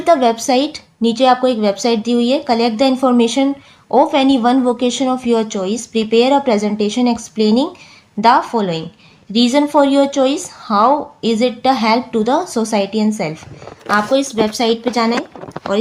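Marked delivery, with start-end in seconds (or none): 2.4-13.4 very slow, careful reading aloud; teacher reading the exercise to class; slow textbook reading. Shown as a demonstration. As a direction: read the task slowly so students follow. Reads textbook task slowly.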